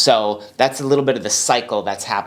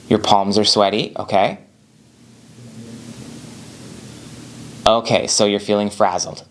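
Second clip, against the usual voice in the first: calm repeating back. Shown as a demonstration. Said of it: "now what you do is you repeat".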